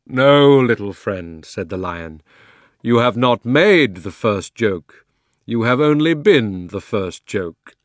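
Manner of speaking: loud, slow, fond lion's reply; Aslan. Acted. Aslan gently correcting the jackdaw. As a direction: tease the little bird kindly like a king.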